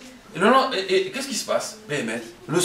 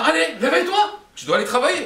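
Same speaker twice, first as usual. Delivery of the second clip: high-pitched, insistent nagging; urgent wake-up call; 11 semitones higher than usual. Acted. Wife waking her husband for work, insistent high-pitched call. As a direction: rouse a sleeper, pitched well up.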